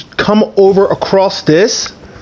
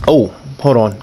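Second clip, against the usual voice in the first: ordinary talk, nothing marked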